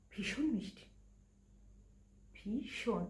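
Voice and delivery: hushed, lingering fondness; soft adoration. Acted. Bride-to-be describes her beloved's smile, softly adoring. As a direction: drop soft as you savour his smile.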